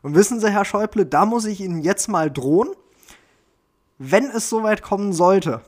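a hint of Gysi mocking threat, pitch climbing; Gysi impression. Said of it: "da sagt er".

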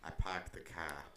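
slow, casual Boston "pahked the cah"; offhand mock-Boston; fake Boston accent. Shown as a demonstration. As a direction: slip the Boston r-dropping in. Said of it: "You gotta bring it up organically".

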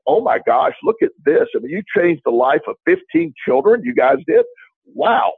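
high, rising wonder; acted amazement. Speaker imagining celebrating fifteen children's new homes, amazed and admiring. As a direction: marvel at it, pitch climbing as the praise builds. Acts out the positive alternative reaction.

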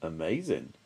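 low, soft amazed monster; awed Gruffalo. Acted. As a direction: breathe it out in awe. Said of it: "said the Gruffalo".

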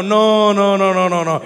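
no, no, no más fuerte; negación enfática. Real, not acted. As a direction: rechazarlo con firmeza. Niega enfático a la iglesia. (negación fuerte)

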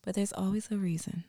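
whispering. Acted. Therapist whisper bit.

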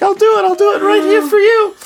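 high, loud, hammed-up insistence; Asuka. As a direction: insist in a shrieky put-on voice. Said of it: "And she's like".

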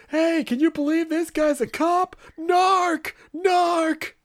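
high, loud jeering call; hammed-up crowd yelling narc; mocking taunt. Bystanders jeering at the undercover cops, loud taunt.

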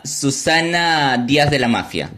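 mock showbiz presenter, drawing out the name; TV host intro. Host introduces his guest on a pretend show, showbiz announcer. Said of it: "yo te presento".

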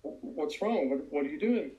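a hint of an alarmed mom; worried mother. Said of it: "mother says".

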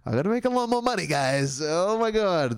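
giggling while admitting money worries; laughing. Real, not acted. Vlogger to viewers about affording New York, laughing. Laughing at costs of moving back.

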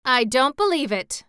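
a mild indignant cry from the hen; a touch of a loud hen's protest; cried out. Acted. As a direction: protest with a toss of the head. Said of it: "cried the hen".

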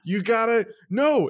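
high, laughing exasperation at someone; exasperated disbelief. Retold or imitated. Telling the future mother-in-law she forgot the rehearsal, exasperated and laughing. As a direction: pitch shooting up in laughing disbelief.

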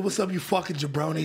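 mock screamed vlog greeting; imitating a screaming vlogger; Chris Long impression. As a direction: shout it like a trash-talking wrestler. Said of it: "he's, like, screaming at them".

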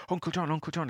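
put-on a six-year-old tugging at his uncle at dawn; excited little boy. Logan waking his uncle, high excited child voice. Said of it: "he says".

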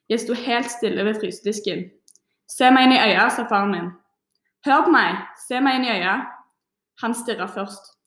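steady reading of a poem excerpt; reading aloud. Acted. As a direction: read it out to the class, evenly. (høytlesning av dikt)

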